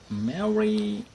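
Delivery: high, loud call of the dog's name; calling the dog to come eat. Real, not acted. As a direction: call Mary over.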